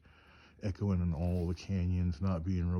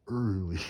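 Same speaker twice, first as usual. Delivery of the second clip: "early" punched louder; emphatic repeat; 6 dB louder than usual. Real, not acted. Storyteller on how soon they were up there, "early" said with loud emphasis. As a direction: lean hard and loud on "early".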